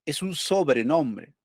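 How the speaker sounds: sobrenombre drawn out slowly; slow teacherly stress on sobrenombre; slow emphasis. Shown as a demonstration. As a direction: spell out sobrenombre slowly for the class. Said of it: "Qué quiere decir sobrenombre".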